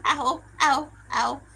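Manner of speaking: pained ow while laughing; laughing through pain. Real, not acted. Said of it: "It hurts to laugh".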